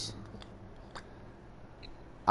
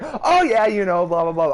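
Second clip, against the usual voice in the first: high mocking imitation; 12 semitones higher, 6 dB louder than usual. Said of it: "she was like".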